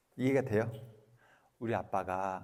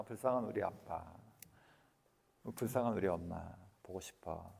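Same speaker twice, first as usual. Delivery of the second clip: soft tender pity; 4 semitones lower, 8 dB quieter than usual. Retold or imitated. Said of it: "이렇게".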